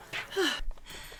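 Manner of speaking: sharp, winded puff of breath; out-of-breath sigh. Real, not acted. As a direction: let out a puffed-out exhale. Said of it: "I'm out of breath".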